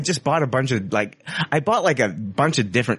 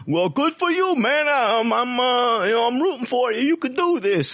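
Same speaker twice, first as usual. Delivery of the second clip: supportive fan; 13 semitones higher than usual. Retold or imitated. Listener messages read in a high gushing voice. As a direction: gush encouragement like an eager fan. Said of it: "I get the messages like".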